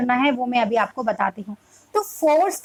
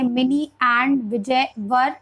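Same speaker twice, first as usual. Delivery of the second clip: put-on child reading alone; much slower than usual. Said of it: "बच्चा खुद से read करेगा".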